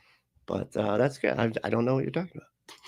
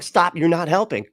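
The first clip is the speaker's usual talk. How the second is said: higher-pitched, fed-up plea; mock exasperated demand; exasperated retort; 6 semitones higher, 3 dB louder than usual. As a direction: act out losing patience with unhelpful people. Acting out exasperation at unhelpful posters.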